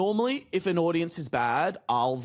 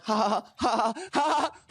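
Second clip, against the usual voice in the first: shrill rising fake laugh; mock laughter; 10 semitones higher than usual. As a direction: cackle higher and higher. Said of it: "they were like".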